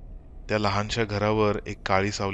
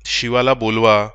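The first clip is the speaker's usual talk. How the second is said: much louder scream; shout; 2 semitones higher, 11 dB louder than usual. Acted. Wife screams at husband to summon her son, shouting. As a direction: yell the command. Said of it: "Rakhma ओरडली".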